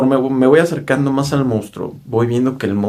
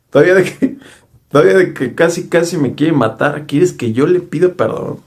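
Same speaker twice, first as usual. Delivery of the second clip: indignant disbelief; 6 semitones higher than usual. Retold or imitated. Teller objecting to apologizing to the monster, indignant. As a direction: push the pitch up, outraged at the request.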